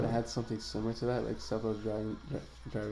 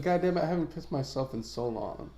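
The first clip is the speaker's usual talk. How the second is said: higher, mildly exasperated outburst; retold anger; 4 semitones higher, 4 dB louder than usual. Telling a friend about the accident, mildly mad. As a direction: replay being annoyed at yourself. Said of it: "I was so mad".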